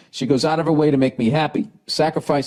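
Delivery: talking through hiccups. Real, not acted. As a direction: hiccup between the words. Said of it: "Sorry, I got the hiccups".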